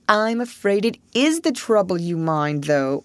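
listless toad voice; lightly voiced languid sigh. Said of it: "replied the Toad languidly".

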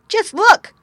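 put-on shrill, loud boy's cry; excited cry. A narrator's reading. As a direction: cry out in delight. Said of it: "cried one".

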